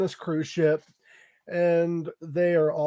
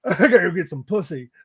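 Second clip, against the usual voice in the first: laughing mock line; 3 dB louder, faster than usual. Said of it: "He doesn't say it like that".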